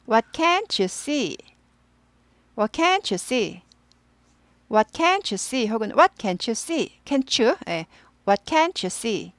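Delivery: "can't" stressed, each word slow and clear; slow repeat-after-me model line; slow drill. Shown as a demonstration. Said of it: "따라 읽으실 거죠?". (천천히 따라 읽는 시범)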